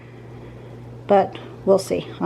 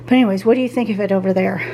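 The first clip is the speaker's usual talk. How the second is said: out of breath; faster than usual. Real, not acted. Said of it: "I'm out of breath from moving it".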